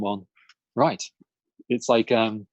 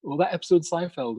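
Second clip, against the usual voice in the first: mock fan gushing; 6 semitones higher than usual. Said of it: "refer to them like".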